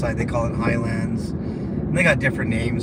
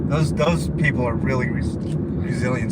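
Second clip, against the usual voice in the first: talking through the hiccups. Real, not acted. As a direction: hiccups catching the words. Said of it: "I got the hiccups".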